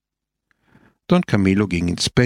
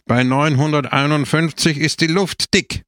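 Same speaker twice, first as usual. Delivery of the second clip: higher voice, proclaiming to the crowd; raised public proclamation; loud announcement; 5 semitones higher than usual. A narrator's reading. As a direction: declare it out loud. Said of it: "sagte er laut".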